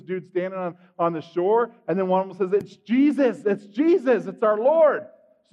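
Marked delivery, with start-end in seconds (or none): 2.6-5.1 acted, higher-pitched excited call; excited recognition. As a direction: call out the sighting with mild excitement. Disciple spots Jesus from the boat.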